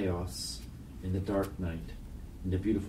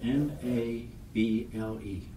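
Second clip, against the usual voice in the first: put-on child speller; 4 semitones higher, slower than usual.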